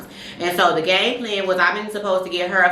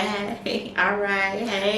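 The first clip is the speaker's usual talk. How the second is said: flattered hey; 5 dB quieter, much slower than usual. Shown as a demonstration. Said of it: "you be like".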